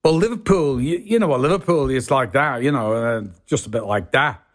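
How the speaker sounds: light Scouse accent demo; Liverpool accent. Shown as a demonstration. Guest shows host his old accent, Liverpool accent. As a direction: put on a bit of Liverpool Scouse. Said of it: "can you demonstrate your accent".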